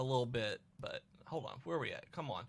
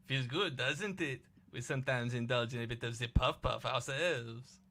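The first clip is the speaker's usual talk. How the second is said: put-on coy French-accented confiding. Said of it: "Sound like Steve Martin playing".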